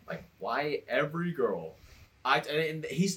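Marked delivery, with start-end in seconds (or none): 0.4-1.7 slow, drawn-out retold complaint; slowly building complaint. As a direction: let each word stretch as you imitate him. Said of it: "his voice is, is, is slowly picking up".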